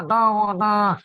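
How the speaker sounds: 'da' in Yuda rounded into 'dao'; wrong rounded ain. Shown as a demonstration. Teacher shows what not to say, wrong rounded sound. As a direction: distort the long 'da' into 'dao'. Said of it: "bukan dao".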